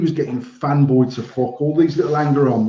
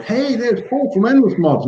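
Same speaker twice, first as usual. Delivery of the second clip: imitating Eric greeting; 9 semitones higher than usual. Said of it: "he was like".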